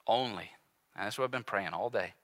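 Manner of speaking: low, soft, earnest preaching; hushed appeal. Real, not acted. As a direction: drop right down to a quiet plea.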